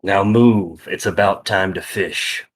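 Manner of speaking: low, commanding send-off; curt dismissal. Acted. Mugen dismisses the warned man, low and curt. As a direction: send him away in a low voice.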